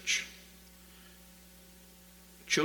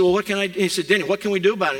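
raised, high-pitched urgent question; heated retold argument; 8 semitones higher, 10 dB louder, much faster than usual. Retold argument with the boss over her job, urgent and loud.

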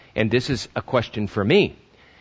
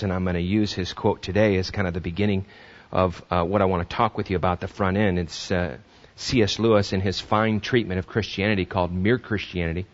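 ordinary talk, nothing marked

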